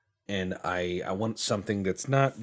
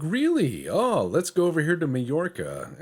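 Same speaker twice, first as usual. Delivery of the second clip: high, loud, eager plotting; scheming rival; 10 semitones higher, 6 dB louder than usual. Retold or imitated. Rival nation eagerly plotting to grab Majorca. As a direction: pounce on the chance. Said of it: "they're like".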